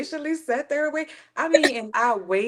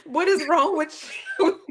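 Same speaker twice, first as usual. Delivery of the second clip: mock incredulous; 5 semitones higher than usual. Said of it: "looking at you".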